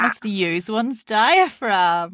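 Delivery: slow, drawn out mock posh voice; drawn-out lofty imitation. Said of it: "What does that even mean?".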